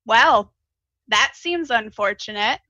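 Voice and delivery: crackle it, unimpressed; crackly voice. Acted. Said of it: "a crackly voice".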